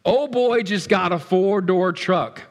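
drool over a friend's new truck; envious exclaim. Pretend. Envious peek at friends' posts.

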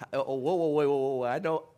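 a loud, amused whoa, whoa, backing off from the crowd; laughing protest. Real, not acted. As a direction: hold them off with a laughing whoa. Audience reacts to his offer.

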